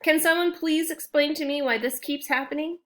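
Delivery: high, loud, fed-up outburst; exasperated rant. Acted. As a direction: boil over at yet another monster. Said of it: "Steam was practically coming from his ears".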